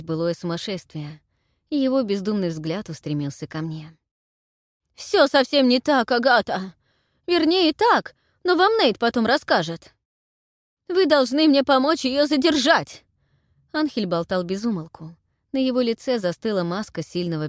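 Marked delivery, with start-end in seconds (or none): 4.9-13.0 high, loud babbling plea; frantic pleading. A narrator's reading. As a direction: beg her in a rush.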